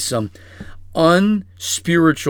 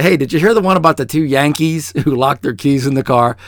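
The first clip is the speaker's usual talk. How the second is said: joking; 5 dB louder, faster than usual. Retold or imitated. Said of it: "me just jokingly say".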